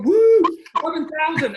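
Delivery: loud, high whoop; cheer. Retold or imitated. Celebrating eleven thousand dollars, a loud high whoop.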